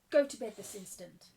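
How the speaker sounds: loud, angry command; stern order. Acted. Mistress sends girl to bed, stern order.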